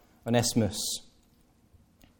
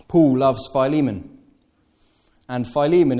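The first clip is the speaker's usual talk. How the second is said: louder, declaring it; emphatic; 7 dB louder than usual. Real, not acted. Preacher stressing the point, louder emphatic declaration. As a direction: proclaim it firmly. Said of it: "emphatic sermon point".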